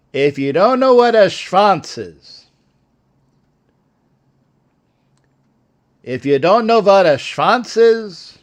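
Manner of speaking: lightly voiced old Jewish man, Yiddish lilt; a hint of an old Jewish comic; old Jewish guy. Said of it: "I'm saying it like an old Jewish guy".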